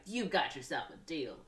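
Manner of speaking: lightly voiced leading man, barely disguised; half-hearted old film star impression; bad Cary Grant. Man agrees to the woman's bargain, bad Cary Grant. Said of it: "my really bad Cary Grant impression".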